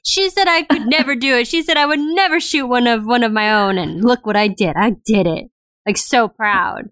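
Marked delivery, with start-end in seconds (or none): 0.0-5.5 mock country accent. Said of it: "a country accent now for his Irish accent".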